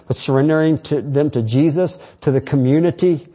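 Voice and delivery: rousing sermon delivery; preaching. Acted. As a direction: build it up like a call to battle. Preaching again.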